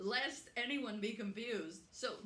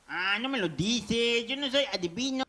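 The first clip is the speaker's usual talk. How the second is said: mock yell; 17 dB louder than usual. Vlogger shouts a Spanish catchphrase at Marvel, loud and hammed-up.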